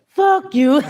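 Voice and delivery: yelling the hook high and loud; shouted song hook. Retold or imitated. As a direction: belt it like blasting it in the car. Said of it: "listening to a rapper, that song".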